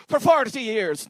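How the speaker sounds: put-on botched Italian accent, drawn out slowly; bad Italian accent. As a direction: attempt an old Italian barber and miss. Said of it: "that's not an Italian accent".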